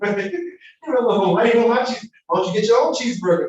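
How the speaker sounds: hammed-up irritation at a friend after food; greedy snap. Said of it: "This is normally what we say".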